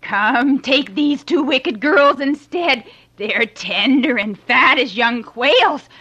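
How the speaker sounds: very high, loud, desperate begging; terrified pleading. A narrator's reading. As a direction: beg for your life in panic. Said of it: "cried out in fright".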